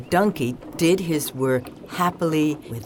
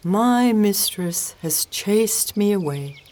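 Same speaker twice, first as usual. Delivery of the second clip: raised, plaintive cat wail; 5 semitones higher than usual. A narrator's reading. Cat cast out by its mistress, wailing. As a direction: wail it higher, like a wronged cat. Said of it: "the cat wailed".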